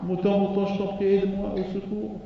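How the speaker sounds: high begging mouse voice; a tiny voice begging for help; pleading mouse. Acted. The mouse begs the sheep, high and pleading.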